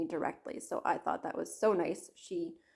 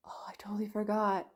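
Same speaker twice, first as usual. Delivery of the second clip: hushed, quick whisper to herself; sudden whispered realisation; 3 dB quieter, faster than usual. Real, not acted. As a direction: whisper it fast as it comes back to you. Sudden aside after a gasp.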